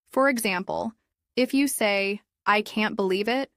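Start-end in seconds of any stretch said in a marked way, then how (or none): 2.5-3.5 "I can't believe it" rising at the end, as if surprised. Shown as a demonstration. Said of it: "with a rising tone at the end".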